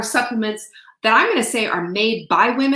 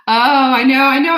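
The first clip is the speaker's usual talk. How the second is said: emotional exclamation; 5 semitones higher, 9 dB louder than usual. Real, not acted. Moved by new label reveal.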